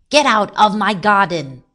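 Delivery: loud, angry garden owner's shout. A narrator's reading. Man ordering rabbit out of his garden, shouting. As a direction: yell it at an intruder. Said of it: "he shouted".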